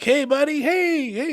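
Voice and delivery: high, hollered buddy greeting; excited kid friends. Retold or imitated. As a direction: imitate a gang of kids greeting a pal. Friends greet him in the story.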